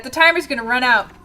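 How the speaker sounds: freaking out. Real, not acted. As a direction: panic climbing to a loud, high wail. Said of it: "I'm freaking out about this".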